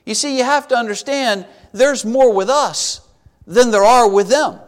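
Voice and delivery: unhurried, gentle reassurance; imitating a composed prophet; very calm. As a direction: reassure a worried servant, steadily. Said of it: "very calmly saying".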